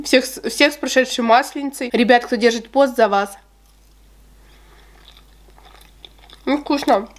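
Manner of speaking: talking between bites of cake; chewing with mouth full. Real, not acted. Seen 2: Bite taken around 5.9–7.0; visible chewing while talking through 12.4.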